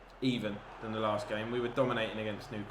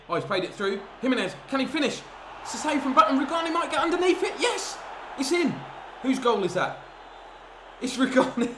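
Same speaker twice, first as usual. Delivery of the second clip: high, loud, ecstatic screaming; building from excitement to full goal roar; goal celebration; 12 semitones higher, 5 dB louder than usual. Real, not acted. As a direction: scream with joy as it goes in. His side scores a goal.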